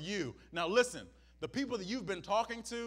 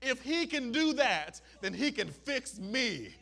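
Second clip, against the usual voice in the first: excited leper; 3 semitones higher, 6 dB louder than usual. Retold or imitated. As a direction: push it out with desperate hope. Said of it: "He said, No".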